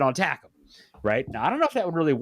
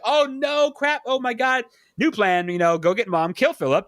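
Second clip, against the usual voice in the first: mock panic; 7 semitones higher than usual. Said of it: "And we're like".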